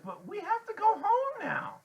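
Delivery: very high, loud, tearful plea; frightened pleading. A narrator's reading. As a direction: beg to leave, close to crying. Frightened Freak pleads to leave.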